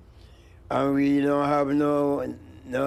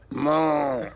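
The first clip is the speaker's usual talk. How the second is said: cow moo; 3 semitones higher than usual. Pretend. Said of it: "the cow go to hell, go mo".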